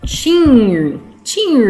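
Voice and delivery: "tin" with a drawn-out R stuck on the end; wrongly placed R. Shown as a demonstration. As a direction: stretch "tin" into a nonexistent "tinrrr". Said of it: "Será que eu posso colocar assim?". ("tin" com R no final: "tinrrr")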